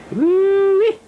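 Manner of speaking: high, loud woo-wee; loud whoop. Real, not acted. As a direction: whoop it out with glee. Whooping in the cold.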